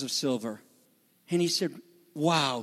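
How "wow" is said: understated, lower sarcastic wow; mildly sarcastic, unimpressed. Retold or imitated. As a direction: say it low with dry sarcasm.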